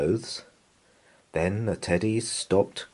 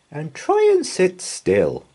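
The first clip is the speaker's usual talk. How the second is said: higher, louder teacher command; teacher instructing; 12 semitones higher, 7 dB louder than usual. A narrator's reading. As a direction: call the class to order kindly. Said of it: "said Missus Sams".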